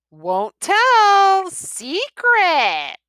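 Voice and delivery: high, loud put-on witch voice; disguised witch voice. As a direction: hide his real voice behind a teasing witch. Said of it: "cried the witch, disguising his voice".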